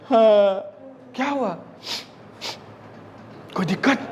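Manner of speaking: lightly weighted reply; put-on heavy voice. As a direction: make the voice a little heavy. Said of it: "अब थोड़ा आवाज़ भारी कर लिया". (थोड़ी भारी बनाई हुई आवाज़)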